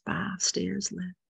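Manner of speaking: slow whispered count. Acted. Guide counting down the stairs, slow whisper.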